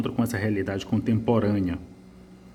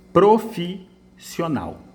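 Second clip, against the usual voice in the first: "Profissional" drawn out very slowly; slow syllable read; 6 semitones higher, much slower than usual. Shown as a demonstration. Teacher showing the hyphenation error, drawn out slowly. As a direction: spell out "Profissional" syllable by syllable, high. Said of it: "É um erro de translineação".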